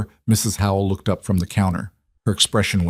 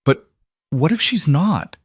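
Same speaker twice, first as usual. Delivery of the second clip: blurted out; 8 semitones higher than usual. A narrator's reading. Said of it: "The words burst out".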